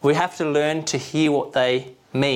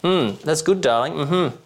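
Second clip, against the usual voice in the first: distracted, higher murmured agreement; absent-minded mm-hmm; 4 semitones higher, slower than usual. Husband half-listening to his wife, distracted murmurs. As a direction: mumble along without listening. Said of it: "I'll be a, a thousand miles away".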